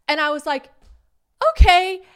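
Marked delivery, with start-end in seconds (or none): 1.5-2.0 high, loud chirpy okay; bright fake okay; forced cheerful okay. Forced reply.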